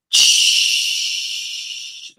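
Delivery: shushing. Real, not acted. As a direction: hush the room gently. Streamer hushing during static.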